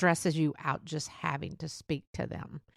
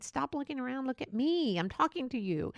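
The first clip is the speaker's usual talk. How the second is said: higher, insistent telling-off; mock frustrated plea; 6 semitones higher than usual. Scene: talking to someone who keeps looking around, mock frustrated. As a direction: demand their attention, half joking. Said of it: "grab them by the shoulders and saying".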